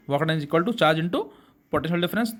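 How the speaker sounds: said slowly so students repeat along; deliberate chanting pace, like a class call-and-repeat; slow recitation for class. Shown as a demonstration. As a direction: spell it out slowly, inviting them to say it too. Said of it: "बोलो".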